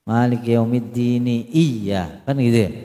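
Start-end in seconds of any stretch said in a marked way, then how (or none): 0.1-1.5 "yaumiddin" read as "yaumiddini"; full vowel ending. Shown as a demonstration. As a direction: say "yaumiddin" unchanted, ending in a short i. Shows the full final vowel.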